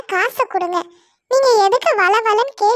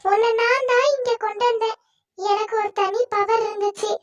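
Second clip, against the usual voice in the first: soft reassurance; 4 dB quieter than usual. Acted. Tree comforts Sonu about sister.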